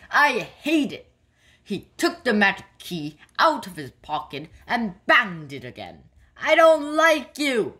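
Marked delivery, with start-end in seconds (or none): 0.1-1.1 high, emphatic storybook shout; cross shout. A narrator's reading. Cross Kipper rejects the adventure, shouting. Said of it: "he shouted". 6.4-7.8 high, loud cross yell. A narrator's reading. Cross Kipper to the magic key, yelling. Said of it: "he yelled".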